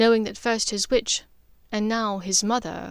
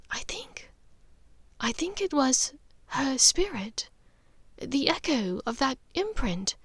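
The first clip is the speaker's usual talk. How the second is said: lightly raised, hushed woman telling of a fading light; a mother confiding something uncanny, half-whispered; Narcissa's voice; 5 semitones higher than usual. Acted. Narcissa explains the spirit.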